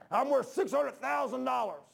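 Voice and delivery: high, slow, incredulous boast; emphatic protest. Retold or imitated. Old man protests as the preacher refuses his estate, emphatic and high. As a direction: imitate an old man stressing his worth.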